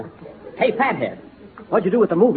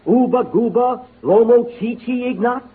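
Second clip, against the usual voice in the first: mock native gibberish; 5 semitones higher than usual. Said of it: "I can speak their language".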